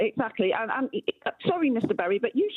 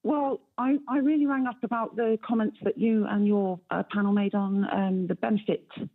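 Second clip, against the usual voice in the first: caller heard down a phone line; radio show caller. Real, not acted. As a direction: narrow telephone sound, live on air. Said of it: "thank you very much for calling into the show".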